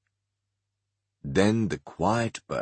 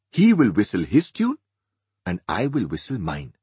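Alsana, scornful; 6 semitones higher, 5 dB louder than usual. Acted. Alsana mocks her husband.

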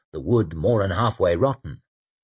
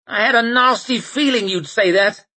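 resigned man's voice; 11 semitones higher, 4 dB louder than usual. Acted. Temple's resigned reply.

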